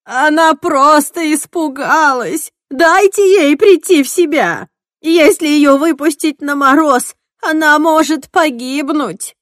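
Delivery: loud, high urgent plea; a loud, high desperate plea; pleading. Acted. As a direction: beg them to spare her. Edna pleading from the floor.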